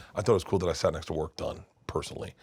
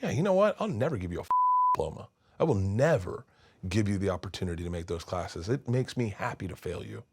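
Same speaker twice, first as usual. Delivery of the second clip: spiteful teacher. Retold or imitated. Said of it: "He's like".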